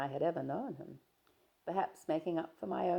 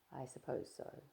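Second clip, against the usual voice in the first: soft breathy whisper, much softer; hushed whisper; 10 dB quieter than usual. Acted. Diana whispering to Stephen, hushed. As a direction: breathe the words out after the kiss. Hushed reply after the kiss.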